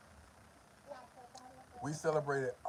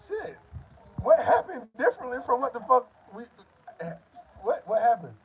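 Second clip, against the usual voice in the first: loud, high disbelief; confused what happened cries; baffled; 7 semitones higher, 5 dB louder than usual. Retold or imitated. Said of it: "I'm like".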